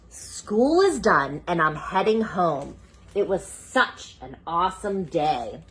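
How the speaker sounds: slow, expressive storybook voice; reading to children. Acted. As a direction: read it slowly to a child. Reads picture book aloud.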